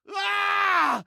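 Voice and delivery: high, exultant victory shouts; triumphant whoop. Acted. Trap cheering his first caught rat, triumphant.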